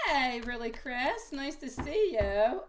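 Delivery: slow, high-pitched greeting. Real, not acted. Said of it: "In a high pitch".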